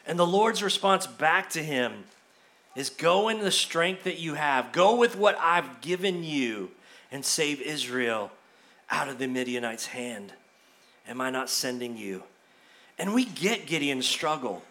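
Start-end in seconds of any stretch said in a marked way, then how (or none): 2.9-12.2 low, soft and grave, fading lower; a quiet, weighty divine answer; solemn voice of God. Acted. God's reply repeated.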